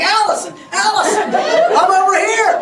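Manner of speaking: loud, high calling across the lot; yelling her name. Retold or imitated. Husband yelling to Allison across the parking lot, loud calls. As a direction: shout to get her attention. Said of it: "begins yelling".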